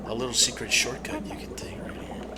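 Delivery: geheimzinnig gefluisterd; fluisterend. Acted. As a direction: fluister het als een geheimpje. Shows a secret shortcut.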